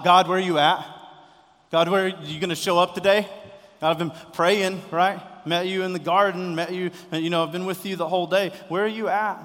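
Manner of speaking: loud, high desperate yell; yelling out to God. Pretend. A struggling believer yelling at God, loud and desperate. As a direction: shout it up at heaven. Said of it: "wanna yell out".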